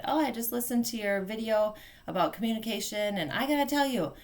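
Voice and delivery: eager phone-call voice, rising high at the end; sister on the phone. Retold or imitated. Sister calling about the video, animated. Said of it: "my sister called last week and she said".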